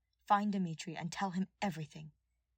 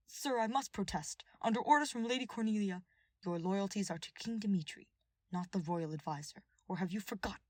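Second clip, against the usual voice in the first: protesting guard; 2 semitones higher than usual. Acted.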